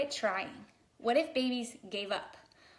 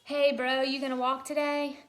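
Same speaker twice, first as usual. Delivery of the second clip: put-on louder, casual dude-bro baby voice; baby bro talk; 3 semitones higher, 4 dB louder than usual. Baby asking his crawling buddy about walking, loud bro voice. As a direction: call out to a buddy like a tough little kid. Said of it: "if babies had this conversation".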